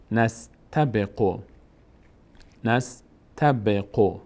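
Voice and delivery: «نستبقو» slowly joined as one word; joined slow reading. Shown as a demonstration. Teacher reading the assembled word to learners, slowly joined. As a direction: blend نس-ت-ب-قو into a measured whole. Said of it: "فتحهٔ نون میچسبه به سین".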